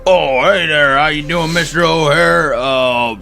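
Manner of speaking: a lightly voiced cheerful clerk; cheery attendant. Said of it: "and he says".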